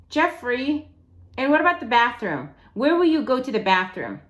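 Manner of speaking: pressing questions. Acted. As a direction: fire the questions at him. Amanda keeps pushing questions.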